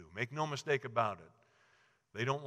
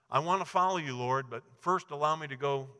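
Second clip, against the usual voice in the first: eager follower; 2 semitones higher, 6 dB louder than usual. Acted. Follower bargains with Jesus.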